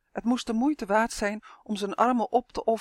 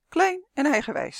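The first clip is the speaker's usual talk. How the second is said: teasing giant; 8 semitones higher, 5 dB louder than usual. A narrator's reading. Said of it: "zei de reus".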